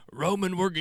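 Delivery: put-on botched Scottish accent, abandoned mid-phrase; attempted Scottish accent. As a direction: try a Scottish brogue and botch it. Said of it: "I can't even do that fucking accent".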